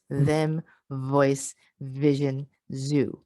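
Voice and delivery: careful, drawn-out voiced consonants; voiced fricatives demo. Shown as a demonstration. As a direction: lean on the buzz in them, vote, vision, zoo. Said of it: "with the voice".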